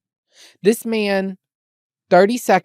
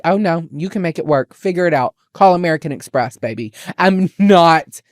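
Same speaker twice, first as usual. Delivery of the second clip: mock sassy pissed. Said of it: "I was so pissed that I was like".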